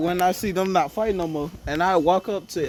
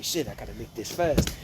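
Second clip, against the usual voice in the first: much lower and softer, under the breath; hushed aside; 10 semitones lower, 9 dB quieter than usual. Pretend. Hearing footsteps coming, a low hushed aside. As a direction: mutter it low so nobody hears.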